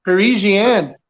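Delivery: Parisian said pa-REE-zhee-an; Canadian accent. Retold or imitated. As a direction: Parisian with a zh sound, stress on REE. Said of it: "Canadian, eh?".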